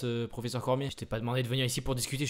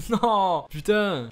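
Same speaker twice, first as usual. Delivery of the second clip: raging gamer; 5 semitones higher, 7 dB louder, much slower than usual. Real, not acted. Outburst after defeat.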